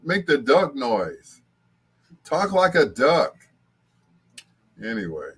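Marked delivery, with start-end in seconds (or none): 0.1-3.3 lightly voiced child, slow and insistent; a slowed, pleading request in a light child voice; imitating granddaughter. Granddaughter asking for the duck noise, lightly imitated child voice. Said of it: "She's like".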